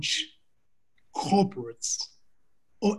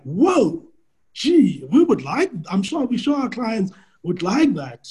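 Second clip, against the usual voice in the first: higher-pitched, impressed reaction; imitated keen interest; 5 semitones higher than usual. Coach retelling the bank's reply to the offer, mock impressed. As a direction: play an impressed client warming to the offer.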